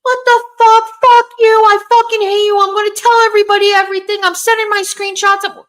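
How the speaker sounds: screamed high and very loud, cursing; mock-furious screaming down the phone; pretend phone yelling. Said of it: "You think I'm gonna yell on the phone".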